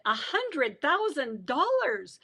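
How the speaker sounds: drawn out, weighty figure; slow announcement. Retold or imitated. Guard telling prisoner the bail, slow announcement. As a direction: stretch each word of the sum.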